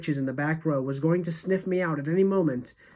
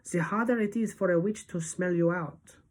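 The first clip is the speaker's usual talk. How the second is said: lightly voiced grandmother giving advice; hint at an accented grandmother character; grandmother's voice; 2 semitones higher than usual. A narrator's reading. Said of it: "my grandmother had told me".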